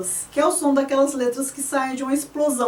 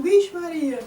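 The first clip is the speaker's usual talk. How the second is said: pitched up high, sharp like a whistle; shrill it like a train whistle; 5 semitones higher than usual. Shown as a demonstration. Teacher showing the sharp i sound as the whistle, high. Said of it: "O som do i, aquele som agudo".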